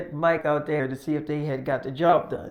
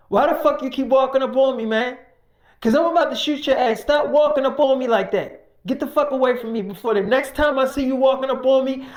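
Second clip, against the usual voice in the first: loud, higher threatening yell; angry threat; 5 semitones higher, 4 dB louder than usual. Retold or imitated. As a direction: warn him off with menace. Man threatening Mike.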